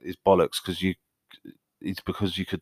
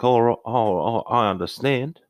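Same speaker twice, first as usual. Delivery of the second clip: put-on Australian reality-show lament; Australian accent; 2 semitones higher than usual. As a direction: act a wronged spouse with an Australian accent. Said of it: "so they just talk like".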